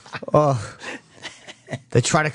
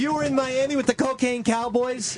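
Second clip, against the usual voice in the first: incredulous; 7 semitones higher than usual. Real, not acted. Disbelieving accusation, high and fast.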